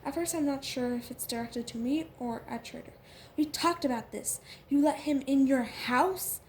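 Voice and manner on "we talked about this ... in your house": loud angry, slowing. Acted. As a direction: scold him furiously. Angry quarrel continues.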